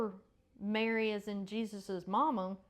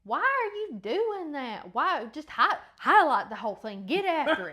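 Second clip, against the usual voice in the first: mock incredulous questioning; 4 semitones higher, 7 dB louder than usual. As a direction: imitate someone baffled by the highlighting. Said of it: "and he said".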